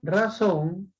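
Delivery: Razón with the O leaned on; stress on last syllable. Shown as a demonstration. Teacher showing an aguda ending in N, stress on ZÓN in Razón. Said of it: "son agudas".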